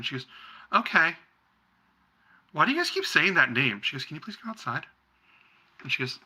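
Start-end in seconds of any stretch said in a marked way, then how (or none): 0.7-3.8 put-on high, eager kid's question; little girl voice. Young daughter asking her mother to take her food outside. 4.0-4.9 hushed urging mother. Acted. Mother urges daughter to leave.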